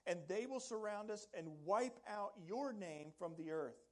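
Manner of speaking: an anguished prayer rising in pitch and volume; anguished lament. Acted. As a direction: plead it out like a man crushed and desperate. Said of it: "the heart of Joshua in this crushing moment".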